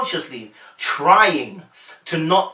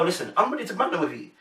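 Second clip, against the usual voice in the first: quick, higher teasing challenge; light eager sparring; playful bantering; 5 semitones higher, 4 dB quieter, faster than usual. Retold or imitated. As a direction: rattle it off playfully, egging them on. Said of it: "She was bantering".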